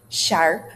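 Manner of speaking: SHARP with a broad AR; short demo SHARP, widened r-vowel; wide R sound. Shown as a demonstration. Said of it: "Notice the wide R sound".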